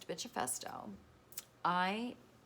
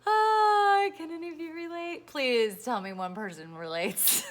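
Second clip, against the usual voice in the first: high squealing plea, much louder; excited plea; 11 semitones higher, 12 dB louder than usual. Real, not acted. Begging followers to relate, high squeal. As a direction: squeal out to the viewers.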